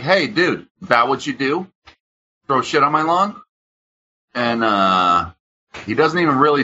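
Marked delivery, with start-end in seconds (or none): 0.0-3.4 confronting. Retold or imitated. To the man who threw trash on his lawn, a high indignant challenge. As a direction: call him out for littering, higher and outraged. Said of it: "I'm like".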